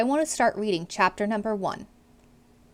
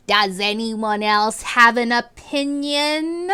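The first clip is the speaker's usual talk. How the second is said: slow, taunting villain teacher voice; slow sinister classroom taunt; menacing teacher; 3 dB louder, much slower than usual. Acted. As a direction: dare the class to speak up.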